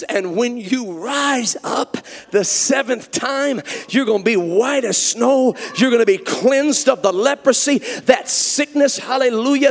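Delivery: building from steady to loud, stretching That sickness; preacher voicing Elisha, building to a loud promise; rising prophetic proclamation.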